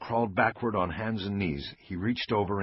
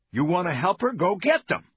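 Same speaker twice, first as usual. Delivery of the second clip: urgent loud command; 10 semitones higher, 4 dB louder than usual. Acted. Bosch urges officers to fetch help.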